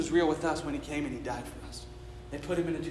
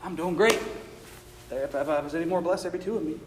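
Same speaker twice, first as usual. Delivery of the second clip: fake cheerful; 3 semitones higher, 7 dB louder than usual. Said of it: "Be like".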